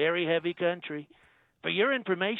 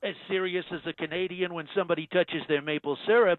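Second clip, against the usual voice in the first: Trump impression. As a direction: play the president, smug and self-assured. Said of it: "Donald Trump".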